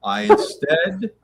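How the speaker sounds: lightly put-on British accent, slowing down; mock British accent. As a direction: imitate your co-host's British accent, teasingly. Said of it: "Why you do my accent like that".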